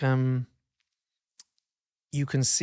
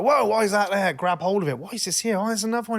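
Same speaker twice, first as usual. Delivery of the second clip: raised, mildly panicked self-talk; higher-pitched, mock-flustered questioning; alarmed questioning; 5 semitones higher than usual. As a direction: act out grabbing at a stray thought in alarm. Acts out panicking at a thought.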